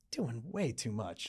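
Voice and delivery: slow, soft, dry director note; deadpan note. Retold or imitated. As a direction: let it land slowly and dryly.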